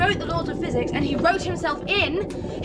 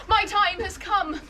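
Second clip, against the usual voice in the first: lightly voiced dying hero; hammed-up dying farewell speech; wounded soldier gasping; 3 semitones lower than usual. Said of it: "Why the fuck is it talking like that?".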